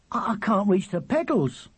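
put-on very high, eager child's voice; piercing little brother. A narrator's reading. Charlie plying his brother with questions, piercing. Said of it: "as loud and piercing as ever".

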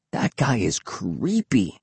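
slow, drawn-out exclamation in a put-on voice; understated exclamation. A narrator's reading. Will to his friend about the swamp man, understated exclaiming. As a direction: draw out "creepy" with distaste. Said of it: "Will exclaimed".

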